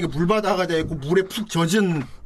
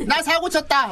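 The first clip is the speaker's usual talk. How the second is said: proud shout; 10 semitones higher than usual. Retold or imitated. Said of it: "하면서".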